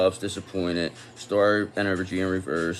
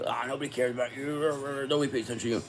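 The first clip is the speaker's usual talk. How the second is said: mocking taunt; 4 semitones higher, 4 dB quieter than usual. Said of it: "So they wanna make".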